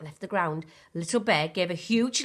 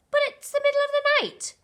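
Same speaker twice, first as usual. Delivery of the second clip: much higher, louder disbelief; surprised; 7 dB louder than usual. A narrator's reading. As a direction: protest in amazement. Surprised little bear.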